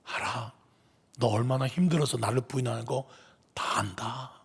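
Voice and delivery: 베드로에게 속삭이듯 다정하게; gentle whispered reproach, full of love; tender whisper. Acted. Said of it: "바로 그 눈빛이었어요". (베드로를 다독이며 속삭이는 예수님)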